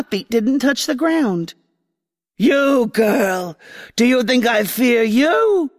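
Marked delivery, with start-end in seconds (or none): 2.4-5.7 menacing queen. Acted. Grass queen threatens the girl.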